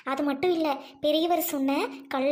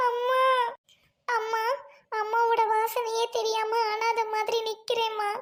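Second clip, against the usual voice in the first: higher, tearful orphan's lament; child lamenting; 3 semitones higher than usual. Acted. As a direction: plead to mother through tears. (அழுது புலம்பும் அனாதைக் குழந்தை)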